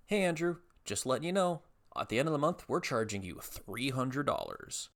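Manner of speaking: high mock-casual announcement, slowing at the end; breezy official voice. Letter from the health insurance people, mock-breezy official voice. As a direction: imitate an insurer breezily dropping bad news.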